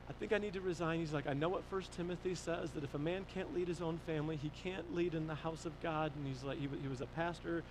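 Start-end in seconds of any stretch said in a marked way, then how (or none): 0.1-6.1 softer, heavy admission; subdued confession. Retold or imitated. Pastor telling dad he must resign, subdued. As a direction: quietly own up to failing.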